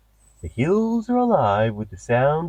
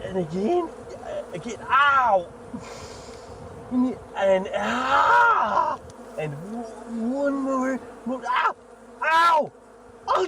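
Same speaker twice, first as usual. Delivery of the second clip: pained yelps; 10 semitones higher, much slower than usual. Acted. Host stung by bees mid-meditation, shrieking in pain. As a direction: yelp as the bees keep stinging.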